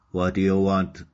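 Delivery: a gruff guard's mild shout at the gate; lightly voiced guard barking a question. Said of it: "shouted one of the crocodile guards".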